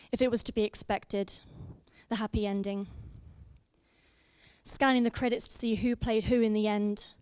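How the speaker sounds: measured spoken-word delivery, pausing between phrases; slam poetry recital. Acted. Poet performs breakup told as a film review, measured recital. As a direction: recite it line by line, leaving space after each. Performs second poem to audience.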